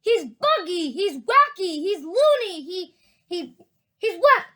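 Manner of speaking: high, loud chorus of insults; frightened shouting. A narrator's reading. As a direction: shout each one in alarm. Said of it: "chorus of frightened shouting".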